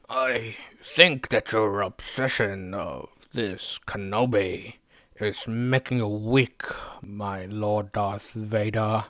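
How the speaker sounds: slow, drawn-out Sith emperor voice, a hint of menace; lightly voiced scheming emperor, very slow; Palpatine. Recapping the show, voicing Palpatine to Vader, slow and mildly sinister. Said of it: "And then Palpatine's like".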